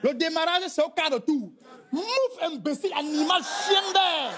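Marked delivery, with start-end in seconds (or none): 1.9-4.3 hammed-up furious name-calling; mock angry insults. African husband mocks his wife in anger, hammed-up fury. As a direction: rattle off insults like an enraged husband. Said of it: "Si c'est un homme".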